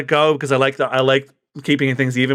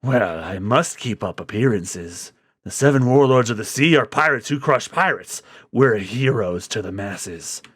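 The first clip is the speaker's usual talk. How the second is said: cool warlord; 5 semitones lower, 4 dB quieter than usual. Acted. Crocodile speaks calmly.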